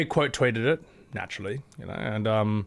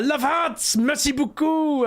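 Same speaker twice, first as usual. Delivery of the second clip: mock cute reply; 13 semitones higher, slower than usual. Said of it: "the official account themselves".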